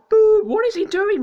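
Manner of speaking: loud furious boo and complaint; angry outburst. Real, not acted. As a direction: shout at the other driver. Player wrecked by rival.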